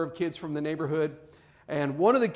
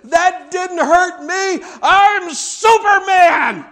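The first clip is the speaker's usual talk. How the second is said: very loud, high, sobbing yell; 13 semitones higher, 14 dB louder than usual. Retelling yelling at his mom as she left the room: retelling a sobbing yell. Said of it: "I yelled at her at the top of my lungs".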